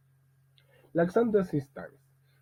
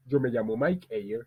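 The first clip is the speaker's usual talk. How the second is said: Spanish-language self-introduction, pitched a little lower; 3 semitones lower than usual. Shown as a demonstration. Teacher introducing himself in several languages, Spanish. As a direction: say the name line as in Spanish. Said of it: "je vais mettre un exemple très simple".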